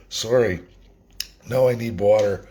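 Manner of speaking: choking, coughing between words. Real, not acted. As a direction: talk through a choke in the throat. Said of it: "Now I'm choking".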